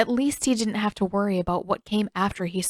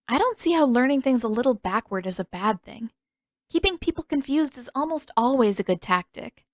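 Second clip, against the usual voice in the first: Katara, lightly voiced; 4 semitones higher than usual. Katara teasing encouragement.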